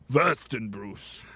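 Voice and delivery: stretched mock-German word; German accent. Shown as a demonstration. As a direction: say it slowly like a German. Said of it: "don't know why I'm saying it like a German".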